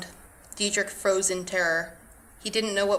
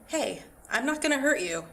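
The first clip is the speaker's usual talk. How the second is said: higher, hushed reassurance from a giant; gentle giant whispering; 5 semitones higher than usual. A narrator's reading. Giant reassuring the tiny villager, hushed and gentle. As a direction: coax a frightened little one, hushed. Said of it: "still whispering".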